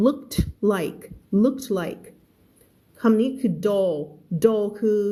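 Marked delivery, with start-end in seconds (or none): 0.1-2.0 looked like run together, the final T joined to like; teacher showing linked looked like; linked pronunciation. Shown as a demonstration. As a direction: blend looked into like. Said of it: "มันก็อ่านว่า looked like".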